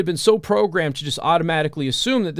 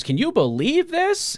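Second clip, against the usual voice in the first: incredulous; 12 semitones higher than usual. Retold or imitated. Woman quoted, indignant disbelief.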